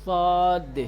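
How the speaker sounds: صاد with air in the throat and a heavy sound; heavy voice saad. Shown as a demonstration. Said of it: "گلے میں ہوا بھرنی پڑے گی تھوڑی سی۔".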